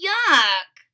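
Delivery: loud high yuck; disgusted. A narrator's reading. Froggy reacts to a sister, disgusted. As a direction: spit out disgust.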